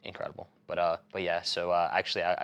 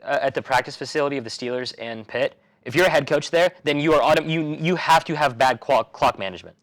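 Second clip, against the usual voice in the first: sarcastic; 3 semitones higher, 7 dB louder than usual. Real, not acted. Co-host mock-bitter joke.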